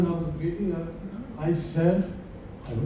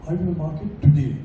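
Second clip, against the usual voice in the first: "going" in "Are you going to market today?" is punched louder, and the pitch falls after it; stress on GOING; 3 dB louder, faster than usual. Shown as a demonstration. Teacher showing students stress on "going", a stress demo. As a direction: hit "going" as if doubting the trip will happen at all. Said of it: "depending on which word you emphasize".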